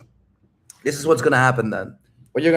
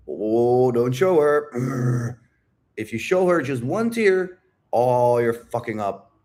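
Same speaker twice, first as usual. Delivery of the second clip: drawn-out, hammed-up warning; mock alarm; slower than usual. Mimicking Red Pill advice on showing tears, mock alarm. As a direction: imitate a panicked warning, stretching the words.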